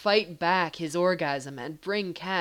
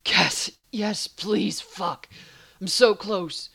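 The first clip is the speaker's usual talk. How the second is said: whining; 3 semitones higher, 6 dB louder, slower than usual. Acted. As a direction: plead urgently in a raised voice. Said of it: "Dean whined".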